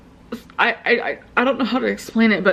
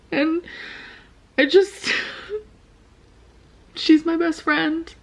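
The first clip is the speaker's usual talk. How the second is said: high, slow teary laughter; laughing; 7 semitones higher than usual. Real, not acted. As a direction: laugh through the pain. Laughing while talking about ex.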